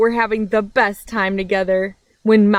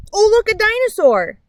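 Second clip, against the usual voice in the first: much higher and louder mock surprise; fake alarm; 13 semitones higher, 5 dB louder than usual. Mouse tricking chipmunk at tea, hammed-up fake alarm. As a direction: point and cry out to distract.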